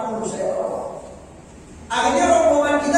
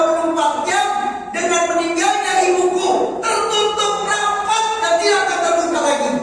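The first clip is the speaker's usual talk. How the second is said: higher, lightly voiced lament of the grieving imam; imam's grieving reply; 6 semitones higher than usual. The preacher voices Abu Hanifah telling friends why he weeps, lightly raised lament. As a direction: plead the loss of the mother, pitched up. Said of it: "kata Imam Abu Hanifah".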